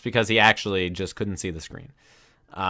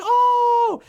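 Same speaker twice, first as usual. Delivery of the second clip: a huge high shout of shock; crowd gasp; 5 dB louder than usual. Retold or imitated. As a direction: yell it out like a stunned crowd. Crowd reacts to shocking moment.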